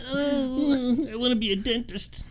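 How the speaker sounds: a hint of the nervous Christmas elf; neurotic elf. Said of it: "sort of like a neurotic elf".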